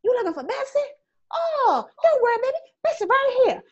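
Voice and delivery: high, loud mocking grandpa voice; great-grandpa revealing the bacon, high and loud; teasing great-grandpa. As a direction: crow it out like a joking old man. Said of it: "And he's like".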